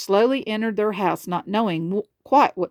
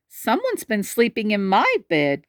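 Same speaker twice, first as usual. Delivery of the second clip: mildly gasping Mama Bear; 2 semitones higher than usual. Acted. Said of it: "gasped Mama Bear".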